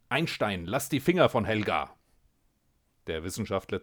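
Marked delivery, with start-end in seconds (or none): 0.1-2.0 loud, sharp warning; shouted warning. Acted. A cat shouts at the scientist to let Helga go, sharply. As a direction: shout the threat across the galley. Threat at knifepoint.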